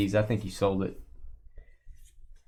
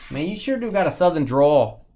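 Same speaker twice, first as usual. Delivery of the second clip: higher-pitched, put-on Wisconsin accent; mock Wisconsin accent; 5 semitones higher, 4 dB louder than usual. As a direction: do a rough impersonation of a Wisconsin friend. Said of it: "if that sounds like Wisconsin".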